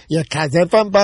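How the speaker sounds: mock Boston accent. Man retelling his restroom quip, mocking Boston accent. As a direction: lightly send up a Boston accent. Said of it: "making fun of, like, the, the Boston accent".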